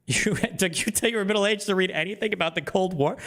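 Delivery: high-pitched, laughing ridicule; mocking disbelief. Real, not acted. Streamer ridiculing the guest's late awakening, high mocking disbelief. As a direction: scoff incredulously, pitch jumping up.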